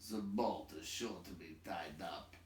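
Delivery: put-on gruff older dwarf, doubtful; Thorin's voice. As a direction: grumble it like a doubting old dwarf. Thorin's voice in dialogue.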